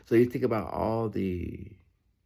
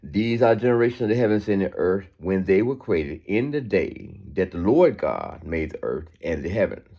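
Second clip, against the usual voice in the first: scripture reading. Acted. Reads the verse again.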